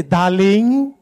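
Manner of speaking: softened, coaxing wife; respectful endearment. Acted. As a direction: say it sweetly to a husband, as a demo. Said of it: "it's how you say it".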